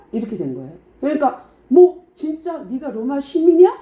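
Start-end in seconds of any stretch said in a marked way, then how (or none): 1.7-3.7 high, loud incredulous question; startled disbelief. Retold or imitated. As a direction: act out an officer taken aback, voice jumping up. Retold officer startled by Roman citizenship.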